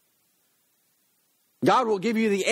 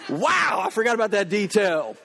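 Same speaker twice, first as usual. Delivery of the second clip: surprised. Retold or imitated. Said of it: "I was like".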